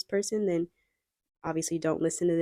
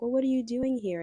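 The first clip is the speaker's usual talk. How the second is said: higher-pitched, lightly acted curiosity; flirtatious stranger; 6 semitones higher, faster than usual. Flirting stranger quizzes the traveller, lightly acted high curiosity. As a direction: play an interested stranger, voice lifted. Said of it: "they start flirting with you".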